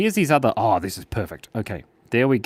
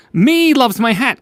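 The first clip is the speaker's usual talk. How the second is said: high, slow goofy voice; silly character voice; 11 semitones higher, 7 dB louder than usual. Pretend. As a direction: put on a dopey little voice.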